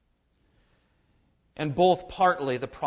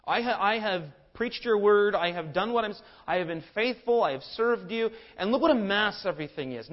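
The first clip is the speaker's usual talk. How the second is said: higher, louder, aggrieved complaining; self-righteous whine; 3 semitones higher, 4 dB louder than usual. Retold or imitated. Elijah complaining self-righteously to God, higher and louder. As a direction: plead like a wronged servant. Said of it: "He begins to whine in a very self-righteous way".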